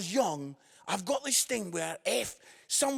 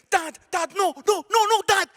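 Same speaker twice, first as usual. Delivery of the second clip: high, loud, urgent no no no; pleading child; 10 semitones higher, 8 dB louder than usual. Retold or imitated. Nine-year-old son Jordan begging his dad not to go, high and urgent. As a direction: beg your dad to stop. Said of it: "he was like".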